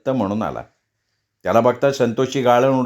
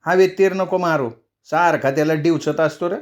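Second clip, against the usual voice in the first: higher mother's voice, scolding; mother scolding her elder son, higher; 4 semitones higher than usual. Acted. Mother scolding Shankar, pitched higher.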